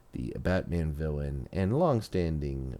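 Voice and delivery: slow, deliberate episode announcement; announcer introduction. Acted. Host introduces today's Batman villain, slow announcer delivery. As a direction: draw out the title slowly, like an announcer.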